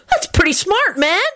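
high-pitched slacker-dude voice; Kenny. Acted. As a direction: admire it like an easygoing dude.

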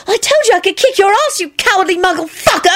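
put-on high taunting girl's voice. A narrator's reading. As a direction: jeer at him, triumphant. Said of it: "Ginny yelled back".

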